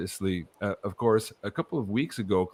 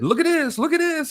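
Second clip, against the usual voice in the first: much higher, squeaky excited cry; excited elves; 3 dB louder than usual. Retold or imitated. Elves showing off creations, high excited squeal. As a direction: gush like thrilled little elves showing off. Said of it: "And they're so excited".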